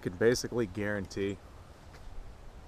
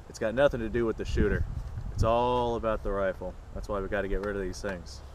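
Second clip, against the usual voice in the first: sarcastic. Acted. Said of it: "That was sarcasm".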